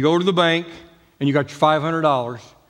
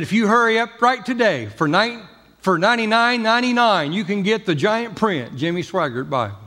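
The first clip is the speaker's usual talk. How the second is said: higher, pushy TV sales pitch; mock Jimmy Swaggart pitch; 5 semitones higher than usual. Jimmy Swaggart on the plane intercom, hammed-up pitch. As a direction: sell the Bible like a hammed-up televangelist ad. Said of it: "Jimmy Swaggart grabbed the intercom".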